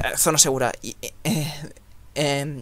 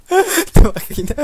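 high slow comic voice; silly voice; 14 semitones higher, 9 dB louder, slower than usual. Acted. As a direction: answer in a squeaky comic voice. Laughing put-on reply.

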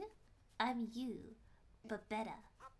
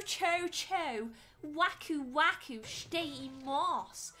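slow, louder put-on Japanese voice; Japanese performance voice; 4 semitones higher, 5 dB louder, slower than usual. Shown as a demonstration. Streamer doing a paid minute of Japanese, exaggerated delivery. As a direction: draw out the Japanese for show. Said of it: "Alright, one minute on the clock".

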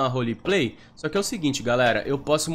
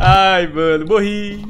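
laughing; 5 semitones higher, 9 dB louder, much slower than usual. Real, not acted. Laughing after dying.

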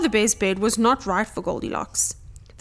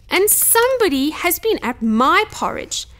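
small squeaky cub voice, louder on the last words; tiny squeak; 8 semitones higher, 4 dB louder than usual. A narrator's reading. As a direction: squeak it like an outraged little bear. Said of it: "squeaked Baby Bear in his thin, tiny voice".

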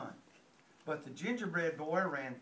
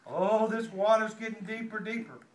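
a louder, fake-worried fox; mock alarmed cry; 2 semitones higher, 4 dB louder than usual. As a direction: pretend to panic to trick him. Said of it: "the fox cried out suddenly".

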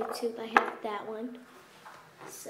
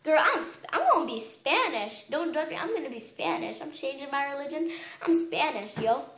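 sassy mock declaration; 2 semitones higher than usual. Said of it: "and I'm like".

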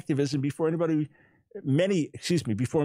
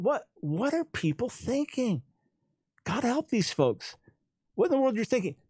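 incredulous; 7 semitones higher than usual. Real, not acted. Exasperated disbelief at critics.

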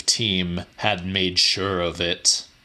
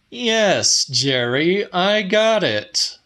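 higher, clipped contempt toward the boss; irritated; 9 semitones higher, slower than usual. A narrator's reading. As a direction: let the contempt leak through each word. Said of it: "I said, irritated. Contempt oozed from my voice".

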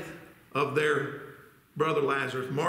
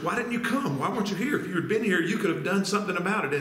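higher, pressing questions as grieving Martha; questioning sister; 3 semitones higher, faster than usual. Acted. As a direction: voice Martha's pained reproach to Jesus. Voicing Martha questioning Jesus.

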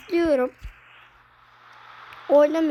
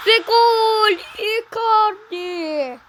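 screaming football commentator; 6 semitones higher, 4 dB louder, much slower than usual. Acted. Icardi scores.

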